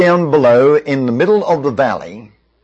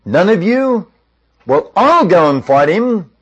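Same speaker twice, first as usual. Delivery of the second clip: higher-pitched, mildly incredulous retort; 5 semitones higher than usual. Retold or imitated. David answering the fearful soldiers, incredulous. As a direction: disbelief turning into a bold offer. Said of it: "David looked incredulous and said".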